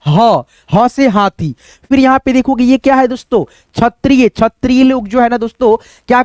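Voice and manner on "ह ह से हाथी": slow recitation. Shown as a demonstration. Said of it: "इस अक्षर को आप क्या याद रखोगे".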